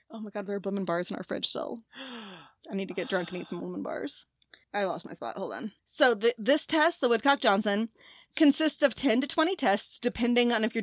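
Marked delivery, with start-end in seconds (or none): 0.1-5.7 softer, mumbling to herself; quiet aside. Real, not acted. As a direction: drift off into a muttered aside. Aside, distracted muttering.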